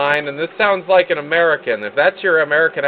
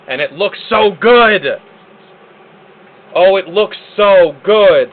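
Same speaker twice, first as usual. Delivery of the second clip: loud, delighted burst with drawn-out words; 2 semitones higher, 6 dB louder than usual. Real, not acted. Host delighted by the new lighting, gushing. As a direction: gush it out, thrilled and louder.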